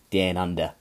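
DOWN squashed to "dan" in fake Australian; badly faked Aussie "down under", with a flattened DOWN vowel; Australian impression, drawing DOWN toward "day-an"; bad Australian accent. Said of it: "Terrible impression of an Australian".

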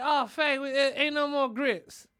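a hint of an apologetic wife, slowed down; wife breaking bad news to her husband; imitating grandma. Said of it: "And she was like".

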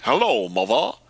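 hammed-up fake Southern accent; swooping, badly faked Southern greeting; Dan Aykroyd. Comedian's bit on actors faking the South, mock Southern accent. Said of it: "like, Dan Aykroyd in Driving Miss Daisy".

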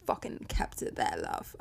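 a sudden hint of a British accent, sassy; British accent creeping in on the final word love; slipping into British. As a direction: drop into British for a moment. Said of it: "Don't know why I turned British".

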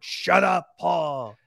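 mock angry shout; angry snap. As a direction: act out cutting a child off. Acting Marcus snapping at Paul.

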